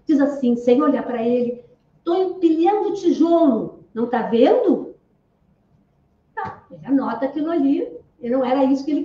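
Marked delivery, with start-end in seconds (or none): 2.0-4.9 a mild mock snap, slow and annoyed; irritated retort. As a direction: play the grumpy worker lightly. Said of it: "bem agressiva, bravo, irritado". (resposta irritada e ríspida, sem exagero)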